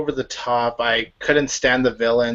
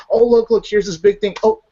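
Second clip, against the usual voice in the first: mock excitement; 3 semitones higher than usual.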